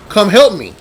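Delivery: a short, restrained yell to summon others; retold yell for help. Camp worker calls the other counselors, retold yell. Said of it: "I yell and go".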